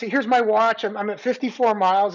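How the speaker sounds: high, bright-eyed and eager to explain; hammed-up innocent runner talking to a cop; eager, nervous greeting. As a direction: talk fast to prove you're legit. Acting own eager reply to cop.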